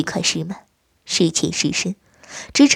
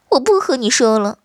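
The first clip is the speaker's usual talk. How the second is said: sulky; 5 semitones higher, 4 dB louder than usual. Acted. Wife sulks.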